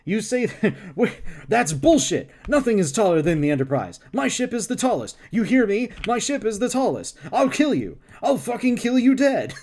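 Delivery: high, loud furious shouting; berserk rage. Acted. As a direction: rave like a madman. Kirk's improvised furious outburst.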